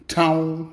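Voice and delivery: "Tone" said with a long drawn-out n at the end; Tone for Tom. Shown as a demonstration. Showing folks how Mississippi kin say "Tone". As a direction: stretch it out as "Tone" with a held n, not Tom. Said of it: "but we say Tone".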